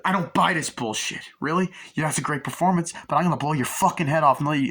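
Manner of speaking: acted threatening disbelief. Acting out sceptical driver threatening.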